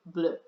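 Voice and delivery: bleu with rounded French vowel set against English blue; French bleu after English blue. Shown as a demonstration. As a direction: contrast blue then bleu. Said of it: "it sounds just like blue".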